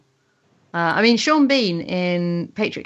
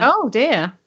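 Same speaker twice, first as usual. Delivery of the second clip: higher, swooping "oh dear"; very English dismay; 5 semitones higher than usual. Real, not acted. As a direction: say it as a very English lament. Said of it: "So English".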